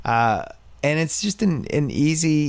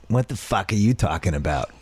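understated, distrustful Boston accent; Boston accent, resentful without raising the voice; Boston accent with attitude; 3 semitones lower than usual. Shown as a demonstration. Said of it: "It's like attitude".

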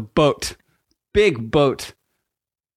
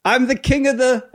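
hammed-up movie line; 9 semitones higher than usual. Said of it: "I'm gonna do a thing".

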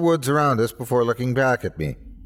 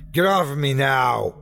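firm, higher-pitched yelled order; yelling; 4 semitones higher than usual. A narrator's reading. Pinned officer struggling free, yelling at attacker. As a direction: order him off, voice lifted. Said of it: "I yelled back".

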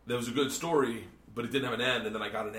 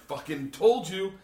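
drawn-out, higher, louder told-you-so; triumphant gloating; 8 semitones higher, 5 dB louder, much slower than usual. Retold or imitated. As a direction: stretch it out in smug vindication. Repeats his vindicated reaction, retold.

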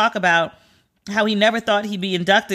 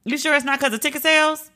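skeptical; 6 semitones higher than usual. Retold or imitated. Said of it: "And I was like".

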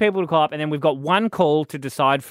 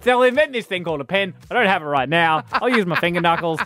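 lightly voiced trader, a touch louder; mock ancient trader; 5 semitones higher, 4 dB louder than usual. Host mocks the knuckle-counting trader, lightly played. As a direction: ham up a silly ancient merchant. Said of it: "exactly how he said it".

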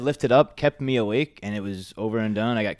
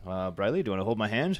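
softer, lightly British imitation; Norman Smiley's British voice; 4 semitones lower, 5 dB quieter than usual. Wrestler recalls a colleague offering his hand, lightly British voice. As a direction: offer comfort with a hint of a British accent. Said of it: "but in a British voice".

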